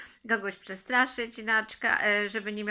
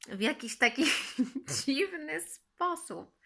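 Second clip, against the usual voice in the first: laughing; 5 semitones higher than usual. Real, not acted. Amused at odd drinking method.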